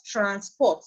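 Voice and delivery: transPORT, second syllable stressed; "transport" as a verb, end-stressed. Shown as a demonstration. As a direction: put the weight on "port" in "transport". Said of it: "stress is now shifting from the first syllable".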